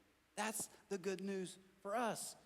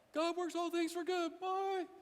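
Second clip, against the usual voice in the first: much higher, chirpy dismissive farewell; glib Christian; 11 semitones higher, slower than usual. Pretend. Pat believer dismissing a friend losing a job, chirpy. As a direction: sing it out and leave. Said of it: "Johnny Christian".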